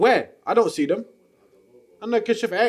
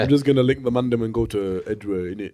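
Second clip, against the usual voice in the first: put-on street accent; 10 semitones lower than usual. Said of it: "What accent is that?".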